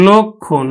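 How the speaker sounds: লক্ষণ as lokkhon; closed o vowel. Shown as a demonstration. Teacher modelling the word for students, lokkhon with closed o. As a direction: say লক্ষণ with a round o first. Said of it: "আমরা উচ্চারণ করব".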